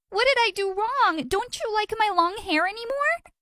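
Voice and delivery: high frantic shriek at him; screaming. Acted. Girl screaming at her boyfriend caught kissing her brother, high frantic shriek. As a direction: scream it, heartbroken and shocked. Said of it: "I barged into the room screaming".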